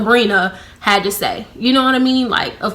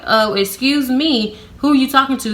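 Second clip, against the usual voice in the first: higher-pitched sarcastic comeback; 4 semitones higher than usual. Retold or imitated. Answering the coworker who told her off, sarcastic. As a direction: act out an affronted, sarcastic retort. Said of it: "I got sarcastic back with her".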